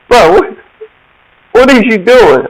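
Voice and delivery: high-pitched shocked "what"; imitated startled cousin. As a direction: jump in surprise at the sight. Cousin catches him tinkering.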